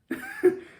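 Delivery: sudden high-pitched laugh; quick burst of laughter. Real, not acted. Laughing at own loneliness.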